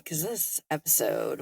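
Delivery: ordinary talk, nothing marked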